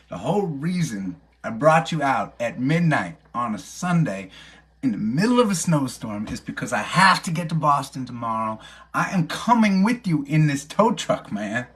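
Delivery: mock-indignant insistence, peaking on "I am coming with you"; retold insistence. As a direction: argue your case with mounting exasperation. Acted argument with tow truck driver.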